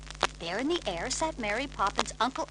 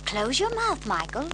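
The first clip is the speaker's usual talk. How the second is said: high crisp scolding voice; a prim nanny correcting a boy; brisk nanny; 4 semitones higher, 4 dB louder than usual. Acted. Mary Poppins telling Michael off, crisp and prim.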